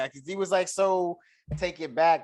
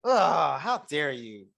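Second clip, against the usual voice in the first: mock indignation; much slower than usual. Date pissed that she was rich, mock indignant. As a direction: act personally insulted, hammed-up. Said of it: "he was pissed that she was rich".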